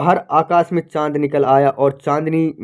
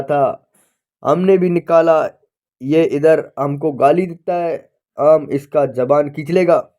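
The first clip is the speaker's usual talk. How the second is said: angry Pathan; 3 semitones higher, 4 dB louder than usual. Acted. Pathan threatening the cursing clerk, louder and indignant. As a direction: defend himself, then threaten. Pathan answers the abuse angrily.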